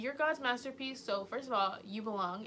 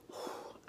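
soft winded exhale; a tired breath out; breathless sigh; 9 dB quieter than usual. Real, not acted. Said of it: "I'm actually out of breath".

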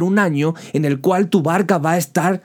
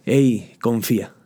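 gentle reassurance; 3 semitones lower than usual. Acted. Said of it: "ese Jesús que te dice".

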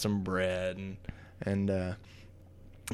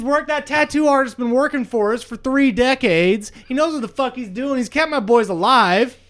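higher, louder furious promoter rant; angry booker; 5 semitones higher, 3 dB louder than usual. Acted. Booker ranting that the players killed his tag team, angry. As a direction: tear into them for wrecking his business.

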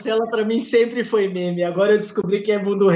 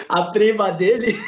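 laughing. Real, not acted. Laughing mid story.

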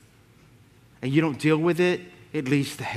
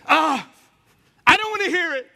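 put-on old aunt's refusal; 11 semitones higher, 4 dB louder than usual. Aunt refusing on the phone.

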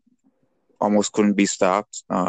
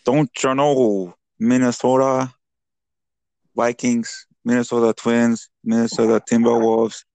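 put-on Minnesota accent. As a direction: ham up a Minnesota fan's accent. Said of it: "Minnesota accent".

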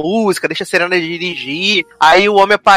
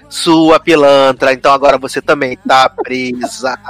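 low, slow, deliberate verdict; accusing officer; 5 semitones lower, slower than usual. Retold or imitated. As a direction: list the crimes slowly in a lowered officer's voice. Officer voiced reading out the crimes.

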